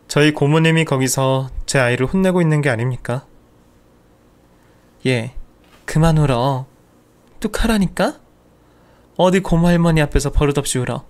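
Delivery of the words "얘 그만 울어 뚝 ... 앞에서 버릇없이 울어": put-on sharp scolding old aunt, pitch jumping up; aunt scolding a child. Great-aunt scolds crying niece, a sharp scolding voice. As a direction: snap at the crying girl like a stern great-aunt.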